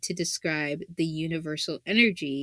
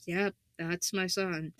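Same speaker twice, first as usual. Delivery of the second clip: proud mother; 6 dB quieter than usual. Pretend. Mother watching son from heaven.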